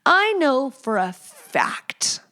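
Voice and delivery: a slow, secret whisper. Real, not acted. Confiding to viewers in a slow whisper. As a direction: lean in and whisper it slowly. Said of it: "whispered aside".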